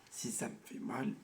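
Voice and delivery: swollen tonsils voice. Real, not acted. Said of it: "je vais essayer de parler fort".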